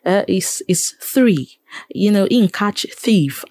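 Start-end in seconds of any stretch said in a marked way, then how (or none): 1.0-1.6 THREE said with a careful English th; careful th sound. Retold or imitated. Pidgin presenter observing the th sound, careful pronunciation. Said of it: "is it the teether sound". 2.9-3.4 THIEF begun with a careful English th; over-correct th on THIEF, mimicking a presenter; careful th sound. Mimicking a pidgin presenter on air, careful th sound. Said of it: "is it the teether sound".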